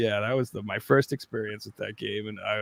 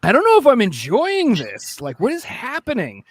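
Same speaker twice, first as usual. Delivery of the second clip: uneasy and scared; 7 semitones higher, 3 dB louder than usual. Retold or imitated. Scared kid playing horror game.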